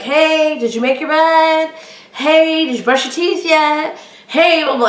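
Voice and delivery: put-on high call to a kid down the hall. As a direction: nag her from another room. Calling the daughter down the hall.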